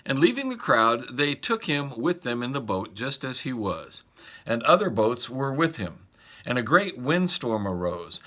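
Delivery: measured, reverent Bible reading; scripture reading. Acted. Pastor reading Mark's Gospel to the congregation, reverent reading. Reads the Gospel passage aloud.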